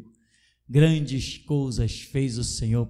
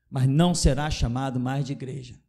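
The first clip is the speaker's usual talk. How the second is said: ordinary delivery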